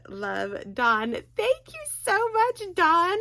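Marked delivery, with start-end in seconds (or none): 1.1-3.2 higher, gushing thank-you; excited thanks. Real, not acted. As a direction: squeal your thanks to a friend.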